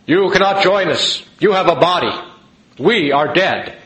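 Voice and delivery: lightly voiced ghost of the dead. Ghost speaks in retold vision.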